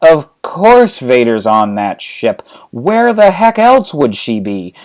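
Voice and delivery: slow, stressed opening, then rising pitch; exasperated Han. Acted. Han answering anxious Luke, exasperated comeback. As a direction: hammer the obvious, then climb into exasperation. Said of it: "And Han says".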